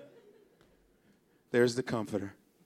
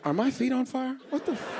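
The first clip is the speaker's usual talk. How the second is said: alarmed surprise; 7 semitones higher than usual. Retold or imitated. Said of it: "You're like".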